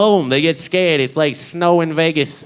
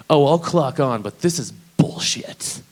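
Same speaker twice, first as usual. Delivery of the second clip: slow, lazy slacker drawl; slacker coworker; slower than usual. Retold or imitated. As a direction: sound like you can't be bothered. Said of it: "the stupidest thing I've ever heard".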